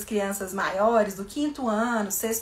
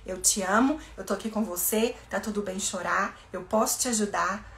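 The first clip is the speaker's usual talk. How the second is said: soothing reassurance; 3 dB quieter than usual. Shown as a demonstration. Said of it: "deixa ela chorando e fala".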